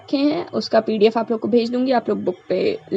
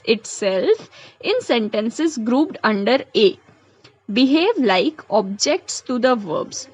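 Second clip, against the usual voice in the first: reads each English example word by word, very slowly; slow dictation; much slower than usual. Shown as a demonstration. Teacher reading examples aloud to students, very slow dictation. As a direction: spell the sentence out slowly for the class.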